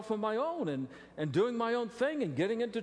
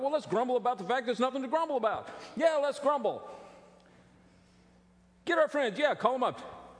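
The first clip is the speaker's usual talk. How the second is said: eager grumblers; 5 semitones higher than usual. Retold or imitated. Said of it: "They loved to grumble".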